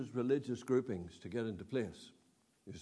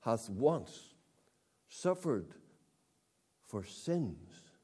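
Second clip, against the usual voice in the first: scripture reading; 2 semitones lower, 4 dB quieter, much slower than usual. Acted. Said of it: "He says".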